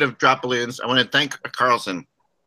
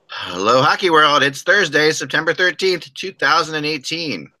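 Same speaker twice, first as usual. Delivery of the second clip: radio voice; 7 semitones higher than usual. Acted. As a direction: open the show like a radio host. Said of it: "I'm using my best radio voice today".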